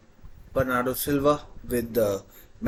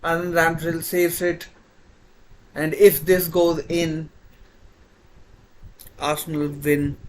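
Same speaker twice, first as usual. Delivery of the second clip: excited; 5 semitones higher, 5 dB louder than usual. Real, not acted. Still buzzing after save.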